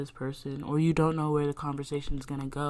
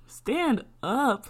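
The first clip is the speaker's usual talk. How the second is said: higher, louder order; shouted stand up; loud command; 9 semitones higher, 6 dB louder than usual. Acted. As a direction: repeat it like a coach. Repeats command to listeners.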